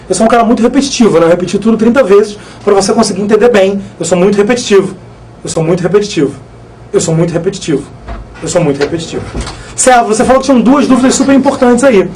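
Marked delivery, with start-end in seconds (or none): 5.4-9.2 each repeat lower and softer, dying away; fading echo. Shown as a demonstration. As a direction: let "Eu sou muito repetitivo" sink lower and quieter, like a fading echo. Joking about repeating himself. (eco que vai sumindo, mais grave e baixo)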